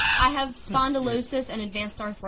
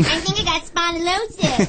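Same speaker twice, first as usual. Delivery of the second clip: laughing mock patient; 5 semitones higher, 5 dB louder than usual. Rehearsing line for doctor.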